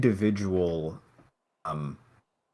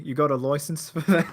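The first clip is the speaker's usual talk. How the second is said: higher mock-British challenge; mock British officer asking; British accent; 5 semitones higher than usual. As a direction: put on a jokey UK accent. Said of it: "it's the U K".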